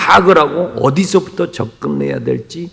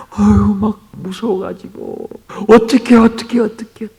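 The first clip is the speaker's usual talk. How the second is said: mock panic; 5 semitones higher than usual. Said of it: "아주 오두방정을 떨어요".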